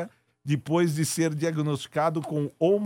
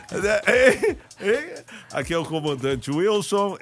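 laughing pilot announcement; 3 semitones higher, 3 dB louder, slower than usual. Pretend. Laughing through pilot bit.

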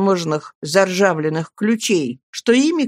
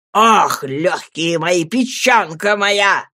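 put-on wailing old man; much slower than usual. A narrator's reading. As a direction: wail over your own organs. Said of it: "закричал старикашка".

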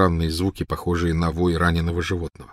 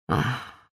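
softer, resigned sigh; 5 semitones higher, 6 dB quieter than usual. A narrator's reading. Dumbledore looking at tormented Snape, sighing. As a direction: let out a short, soft sigh. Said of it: "Дамблдор вздохнул".

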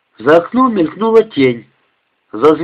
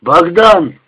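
growled call; 4 semitones higher, 4 dB louder than usual. Acted. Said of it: "прорычал из дальнего угла".

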